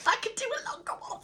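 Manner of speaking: high, fast and giddy; excited. Real, not acted. Reader thrilled about a longer video, high and fast. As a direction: rattle it off in delight. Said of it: "I just got excited then".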